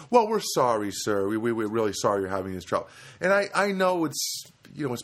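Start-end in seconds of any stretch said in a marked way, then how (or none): 0.1-2.9 mock corporate apology, hitting the first words hard; over-emphatic apology. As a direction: overdo the customer-service sorry, then rattle on. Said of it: "they just say it with too much emphasis".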